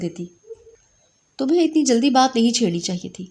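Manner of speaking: mother sternly questioning her son. Acted. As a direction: reprimand firmly. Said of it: "سخت لہجے میں پوچھا".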